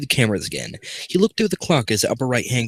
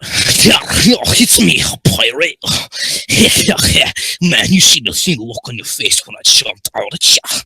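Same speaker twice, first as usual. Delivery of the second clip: laughing pirate; 6 dB louder than usual. Acted. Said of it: "Mangle laughed at him".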